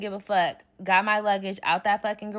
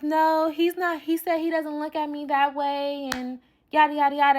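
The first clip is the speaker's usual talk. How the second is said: mock friend denial; 7 semitones higher than usual.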